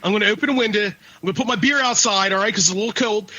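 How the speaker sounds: light mock Philly accent; a hint of South Philly talk; lightly voiced Philly guy; mild Philly accent. Shown as a demonstration. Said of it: "This is how somebody from Philly would talk".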